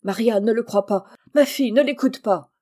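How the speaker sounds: loud, urgent appeal; pleading, rising in force; desperate plea. A narrator's reading. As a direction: beg her not to believe it. Accused cousin begs to be believed.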